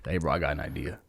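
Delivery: low, soft imitation of a friend; quiet mock impression. Host imitating his friend pitching an idea, softly. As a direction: murmur it like your buddy does. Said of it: "is like".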